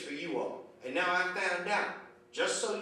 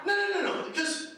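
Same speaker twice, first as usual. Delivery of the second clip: much higher, laughing outburst of disbelief; exasperated disbelief; 7 semitones higher than usual. Real, not acted. Comic baffled by pajama-clad shoppers, high laughing exasperation. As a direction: throw up your hands, laughing at the ladies.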